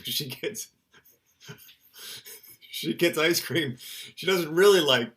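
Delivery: mother laughing at her daughter's clever trick. Real, not acted. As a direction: giggle through it at the daughter's trick.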